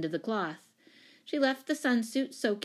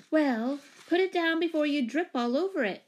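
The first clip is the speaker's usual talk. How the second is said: high-pitched, superior big-sister order; bossy and lofty; 8 semitones higher, 4 dB louder than usual. A narrator's reading. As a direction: talk down to a younger brother, loftily. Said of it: "said Jane loftily".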